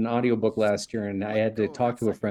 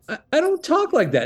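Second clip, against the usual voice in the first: much higher, stammered comic objection; mock protest. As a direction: squeal a playful denial. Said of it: "And I was like".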